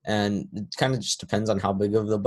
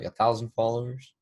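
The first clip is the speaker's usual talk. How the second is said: mildly surprised question, imitating guests; mock mild amazement; impressed surprise; 3 semitones higher than usual. Voices guests seeing his follower count.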